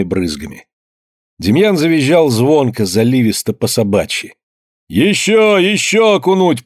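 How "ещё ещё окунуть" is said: women at the ice hole, high eager shouts; gleeful shouting. A narrator's reading. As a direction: demand more, caught up in the frenzy. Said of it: "послышались голоса".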